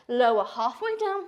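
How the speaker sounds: panting between cues; breathless, winded yoga cue; out of breath. Real, not acted. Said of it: "I'm out of breath".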